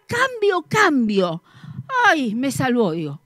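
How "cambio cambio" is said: loud hawker's cry; shouted trade call. Retold or imitated. Hawker shouting his swap offer, loud. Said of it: "y grita".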